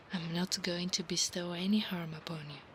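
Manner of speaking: hushed whisper. Acted. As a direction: whisper the promise close to his ear. Whispered roleplay.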